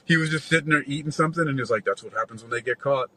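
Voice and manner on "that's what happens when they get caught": so casual. Retold or imitated. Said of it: "that is just so casual".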